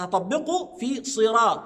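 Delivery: صراط with a full emphatic S; heavy emphatic sad. Shown as a demonstration. Teacher modeling صراط with a heavy sad. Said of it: "ما أقولش الصراط".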